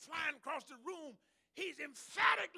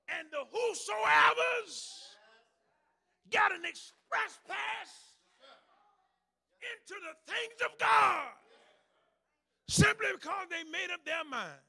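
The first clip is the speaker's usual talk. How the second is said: loud, high, driving preacher's cry; fervent preaching; 6 semitones higher, 12 dB louder than usual. Real, not acted. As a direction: preach it with full fire. Preaching at full force.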